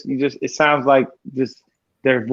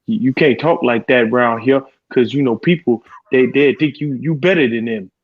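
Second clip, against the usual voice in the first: put-on Southern accent. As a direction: imitate an Atlanta local complaining, Southern accent. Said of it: "I like the people in the South".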